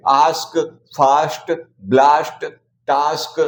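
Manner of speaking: आस्क, फास्ट, टास्क said with a long "aa" vowel; each word said alone and clearly; aa sound demo. Shown as a demonstration. A teacher listing the "aa" words for students. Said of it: "ए को आ पढ़ेंगे".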